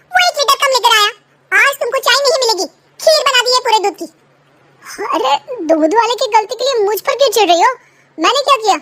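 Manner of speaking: a wife snapping back over tea; irritated wife. Acted. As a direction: quarrel over milk and tea. Wife argues with husband.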